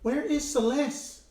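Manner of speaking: lightly acted worried query; urgent character question. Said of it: "then they're like".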